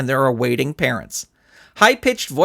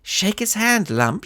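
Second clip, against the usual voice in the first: instructing; 5 semitones higher, slower than usual. Acted. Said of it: "she instructed".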